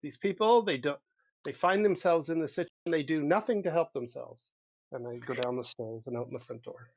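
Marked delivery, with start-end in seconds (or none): 0.0-4.5 frustrated rant. Retold or imitated. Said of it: "I'm like / out of frustration".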